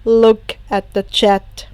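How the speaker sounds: steady and unhurried; calm. Acted. Shoto calmly telling Himiko to check the chat. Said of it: "Shoto said calmly".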